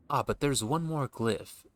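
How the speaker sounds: slow, intrigued discovery; surprised NPC voice. Acted. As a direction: draw out the discovery.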